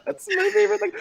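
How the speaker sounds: high squeaky laugh through words. Real, not acted. Still laughing.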